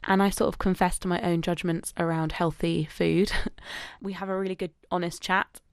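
upbeat radio DJ intro delivery; radio host voice. Acted. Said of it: "I wanna talk like a radio host today".

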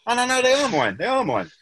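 sudden high, dazed realisation; confused tripping self. Retold or imitated. Walking home on acid, talking to himself about his shoes, high and dazed. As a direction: voice jumps up, lost in the trip.

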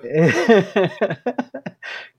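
cackling evil chuckle; villain laugh. Pretend. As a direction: laugh like a comic book villain. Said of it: "It was a good villain laugh".

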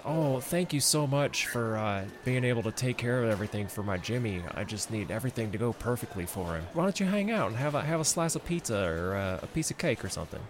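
put-on grateful mom with a lilting southern accent. Jimmy's mom inviting the helper to pizza, southern accent. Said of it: "I got her into a southern accent".

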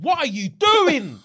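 high, slow incredulous mock cry; mimicking his baffled outburst; exasperated man. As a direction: stretch it out in disbelief. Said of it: "Man said".

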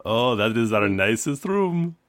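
innkeeper in a loose put-on Indian accent; shifting Indian accent. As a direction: Eastern European accent drifting into Indian. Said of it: "accent has slowly shifted away from racist Eastern European accent to racist Indian accent".

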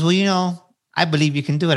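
lightly imitated Southern twang; Tennessee twang. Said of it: "he would talk with an accent twang".

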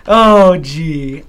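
lightly voiced Keaton exclamation; a hint of flustered Diane Keaton; Diane Keaton impression. Doing impressions, light Diane Keaton. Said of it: "That's my Diane Keaton".

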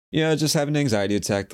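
high, strained casual admission; fake nonchalance. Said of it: "I said it like that".

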